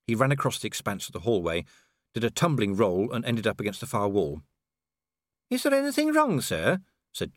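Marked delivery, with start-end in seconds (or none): 5.5-6.8 high-pitched, questioning deputy; dwarf officer's voice. A narrator's reading. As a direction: ask your superior in a high character voice. Cheery voiced asking Vimes.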